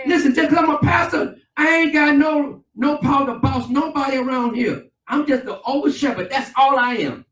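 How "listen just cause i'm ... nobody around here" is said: preaching shout. Real, not acted. Preacher calling out to congregation.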